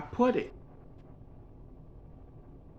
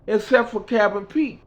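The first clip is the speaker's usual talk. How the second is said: Mickey's voice; 9 semitones higher than usual. Retold or imitated. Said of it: "She said".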